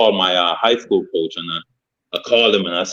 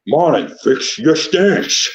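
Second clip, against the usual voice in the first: higher, slow coach impression with slushy S sounds; 5 semitones higher, much slower than usual. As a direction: imitate the coach's drawn-out order, S turned to "sh". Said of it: "Coach P talk like this".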